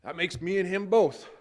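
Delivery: mild imitation of a friend's dark humor; Dale's dry wit. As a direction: punch the gag like Dale would. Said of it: "in his Dale-esque way".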